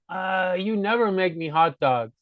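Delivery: slow, drawn-out mock grumble; play-acted grievance; mock complaint. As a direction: complain like someone feeling neglected, lightly acted. Acted complaint about hot dogs.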